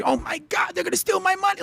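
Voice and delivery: high fretting Jewish mother. Retold or imitated. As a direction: squeak it out like a worried Jewish mom. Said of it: "his, like, Jewish mother voice".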